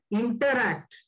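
deliberate, weighted interact between two pauses; stress on interact. Real, not acted. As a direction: set interact apart for emphasis, letting it fall. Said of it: "I emphasize this word".

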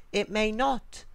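high-pitched anxious little sister; worried girl. A narrator's reading. Sally doubts the dress will come clean, worried.

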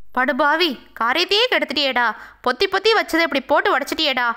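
usual speaking voice

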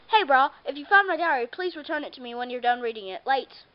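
put-on a light, kid's try at an Australian accent; hammed-up Australian surfer greeting. Shown as a demonstration. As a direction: read the diary note in a playful Australian accent. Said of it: "I was supposed to speak in an Australian accent".

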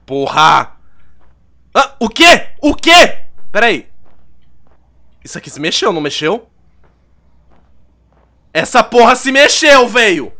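high panicked shouting; terrified yelling. Real, not acted. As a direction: scream in sudden fright. Jump scare while playing.

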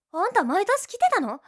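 high loud shocked cry; shocked exclaim. Acted. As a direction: blurt out in shock.

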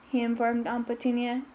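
ordinary delivery, nothing marked

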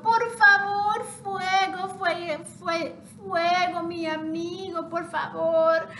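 pleading chick. Acted. Half chick in the pot begs the fire, high and pleading. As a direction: beg the fire to stop burning.

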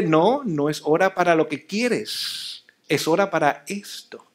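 slow, patient and gentle; calm a fussing baby without giving in. Shown as a demonstration. Parent patiently refusing a crying child, slow and gentle. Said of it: "Háblele con paciencia".

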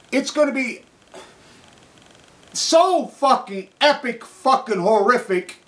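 slow, high, loud outburst, dragging out each word; ranting shout. Real, not acted. Speaker to the audience, warning of disaster, shouting slowly. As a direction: yell the horror of it.

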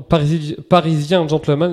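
Parisien Gentleman said with a broken English accent; clumsy English accent. Real, not acted. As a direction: stumble through the name in bad English. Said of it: "j'ai un accent anglais vraiment, vraiment pété". (accent anglais maladroit)

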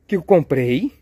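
high, emphatic disbelief; baffled surprise. Pretend. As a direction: play up the bafflement, high and loud. Puzzled by an unexpected second egg. (surpresa incrédula, voz aguda)

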